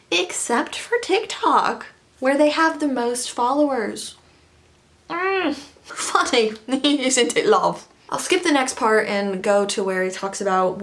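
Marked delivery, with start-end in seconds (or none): 5.1-7.9 higher, slow sarcastic tease; sarcastic purr. Pretend. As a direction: purr it with mock sweetness. Sarcastic aside.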